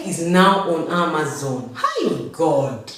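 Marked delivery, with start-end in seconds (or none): 1.8-2.9 laughing squeal. Real, not acted. Laughing exclamation to God.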